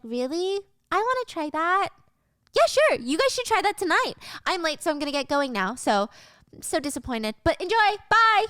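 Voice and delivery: overdone fake delight; gushing fake cheer. Stacy voiced, gushing.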